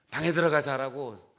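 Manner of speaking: loud barked scolding; yelling at husband. Retold or imitated. Wife scolding her sleeping husband, loud yell. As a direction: bark it like an angry wife. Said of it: "호통을 칠 텐데".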